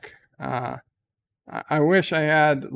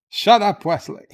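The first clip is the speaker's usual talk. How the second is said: sudden loud shout of shut up; hammed-up captain yelling shut up; mock angry shout; 5 semitones higher, 8 dB louder than usual. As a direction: bark it at the boy. Captain snaps at Wesley.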